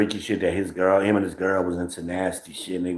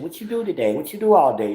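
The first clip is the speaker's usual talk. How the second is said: mock prying questions, pitched up; nosy partner voice; 7 semitones higher, faster than usual. Mocking how women question his day, pitched up. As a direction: imitate her asking about his day. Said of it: "track your schedule and shit".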